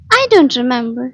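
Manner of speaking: loud, puzzled reply. A narrator's reading. Woman answering a question about her hair, puzzled. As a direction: answer as if puzzled, with some force. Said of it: "sounding puzzled".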